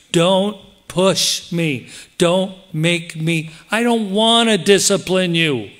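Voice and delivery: a pastor warning his flock with slow pleading. Acted. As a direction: beg them slowly not to push you. Paul's warning voiced by preacher.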